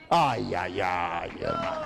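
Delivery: shouting ay, ay, ay in delight; joyful outcry. Real, not acted. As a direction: cry out overjoyed, rising sharply at the end. Joyful outcry at the healing news. (grito de júbilo)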